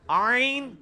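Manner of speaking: آئین held, from mid-throat; firm, drawn-out ع in آئین; corrective ain demo. Shown as a demonstration. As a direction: show the student a strong throaty آئین. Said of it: "نہ جی، نہ، کدھر آئین؟".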